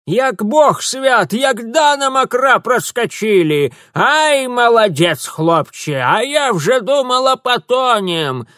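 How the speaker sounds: high, loud, slow joyful crone; old woman praising the boy; elated crone. Acted. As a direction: rejoice loudly after the rapids. Old woman celebrating survival.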